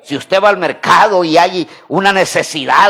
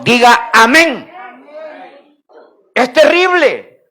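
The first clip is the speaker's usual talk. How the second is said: raised, forceful pulpit voice; emphatic preaching; 5 semitones higher than usual. Real, not acted. Preacher rebukes the church for indifference, emphatic preaching. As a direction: drive each phrase home to the congregation. Preacher presses point to congregation.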